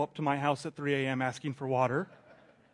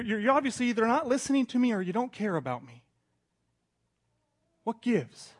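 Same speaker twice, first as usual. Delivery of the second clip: frustrated prayer; 5 semitones higher than usual. Retold or imitated.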